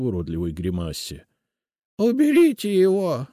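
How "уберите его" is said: high, loud desperate plea; pleading. A narrator's reading. Witch begs the guards to remove the spirit. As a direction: beg them to take him away. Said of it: "взмолилась она".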